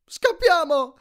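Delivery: high, loud cry to run; Percy shouting at friends to flee, high and loud; shouted. Acted. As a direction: yell the warning at full force. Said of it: "gridai ad Annabeth e Grover".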